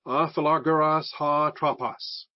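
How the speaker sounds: A philagaros ha tropos read slowly, ah fi-la-GAR-os ha TRO-pos; teacher reading the Greek phrase aloud. Shown as a demonstration. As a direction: sound out A philagaros ha tropos carefully. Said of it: "front of the sentence".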